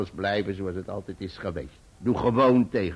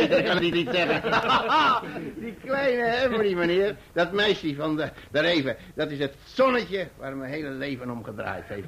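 high, giddy laughter through the words; bursting with pride over little Emily; laughing with joy; 7 semitones higher, 3 dB louder than usual. Acted. Proud uncle to guests, laughing with joy.

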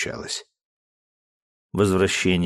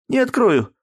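high, louder tearful outburst; mock tearful shout; tearful cry; 5 dB louder than usual. Daughter crying out refusing to open, tearful. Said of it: "заплаканным голосом выкрикнула она".

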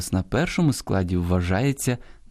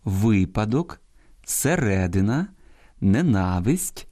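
«випадок» on ви-, «середина» on -ре-, «ненависть» on -на-; correct stresses shown; slower than usual. Shown as a demonstration. Host reads correct forms for listeners, stressing ви-падок, се-ре-дина, не-на-висть. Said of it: "я зараз правильно читаю".

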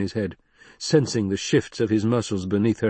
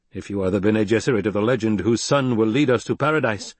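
stern Fremen leader. Acted. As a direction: lay down the law like a tribal chief. Stilgar tests Jessica.

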